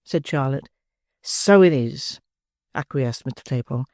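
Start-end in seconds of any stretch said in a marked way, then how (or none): 1.2-2.2 smug lad with a full mouth; tipsy Noah. Acted. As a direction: Noah praising oysters to Charlotte, smug and tipsy.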